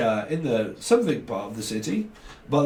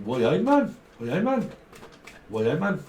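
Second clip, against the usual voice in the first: Scouse; 4 semitones higher, slower than usual. Retold or imitated.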